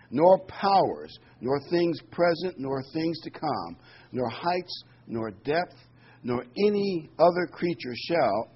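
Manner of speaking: solemn scripture read. Acted. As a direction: read the verses out to the congregation with weight. Reading scripture aloud.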